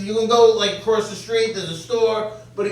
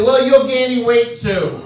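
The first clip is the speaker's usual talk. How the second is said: retold anger; 2 semitones higher, 5 dB louder than usual. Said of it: "I got so mad".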